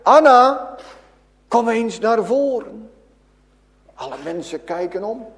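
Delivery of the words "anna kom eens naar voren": Jesus calls Anna to come forward; calling her name. Acted. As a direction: call her forward across the room. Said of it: "hij roept haar bij haar naam".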